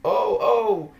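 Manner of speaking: laughing while mocking the blocked admin; laughing taunt. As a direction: giggle through the gloating. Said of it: "And I'm laughing".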